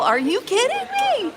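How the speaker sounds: very high, disbelieving are you kidding me; incredulous. Retold or imitated. To the thief who wants a quarter back, high incredulous disbelief. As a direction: shriek the question in disbelief. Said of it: "I was like".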